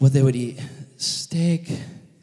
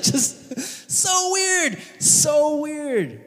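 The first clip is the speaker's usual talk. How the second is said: high, drawn-out squeal of amusement; tickled, incredulous singsong; amused disbelief; 10 semitones higher, much slower than usual. Real, not acted. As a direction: say it through giggles, very high. Laughing at the creepy impression.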